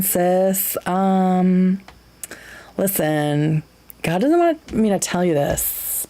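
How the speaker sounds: lightly voiced sassy snake, a hint of valley girl; a playful gossipy serpent tempting Eve, barely changed from own voice; gay snake voice. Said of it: "More gay snake voice, please".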